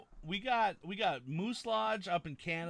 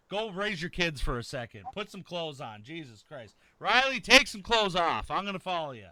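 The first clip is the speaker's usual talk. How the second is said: hyped shouting; 3 semitones higher, 9 dB louder than usual. Real, not acted.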